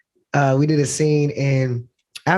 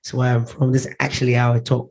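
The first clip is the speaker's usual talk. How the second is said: put-on off-camera British accent; British accent impression; 3 semitones lower than usual. Guest playing the actor explaining his real speech, British accent. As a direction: imitate the actor's own British voice. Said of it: "it's back talking like this".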